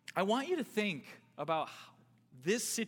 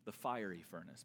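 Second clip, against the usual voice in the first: king's threat; 6 semitones lower, 4 dB quieter than usual. Retold or imitated. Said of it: "He restates".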